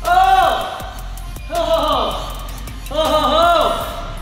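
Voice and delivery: high, drawn-out cheering oh; excited shouts. Real, not acted. Coach celebrating finished round.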